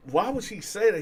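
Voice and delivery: high, loud disbelief; incredulous. Retold or imitated. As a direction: ask in disbelief. Shocked questioning.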